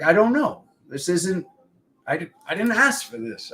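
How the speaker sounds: put-on a flustered kid's helpless squeak; high defensive kid. Boy answering jealous cousins in a high, defensive squeak. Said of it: "I was like".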